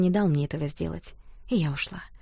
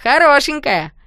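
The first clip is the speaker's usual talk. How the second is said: loud, higher mocking shout; teasing yell; 7 semitones higher, 9 dB louder, slower than usual. A narrator's reading. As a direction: holler the tease across the room. Rowdy guys teasing.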